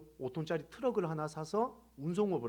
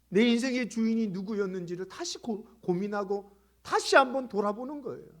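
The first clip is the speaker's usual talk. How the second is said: loud, higher-pitched sermon climax; forceful preaching; 6 semitones higher, 8 dB louder than usual. Real, not acted. Preacher warning the congregation about life without Jesus, forceful. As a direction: drive each phrase home from the pulpit.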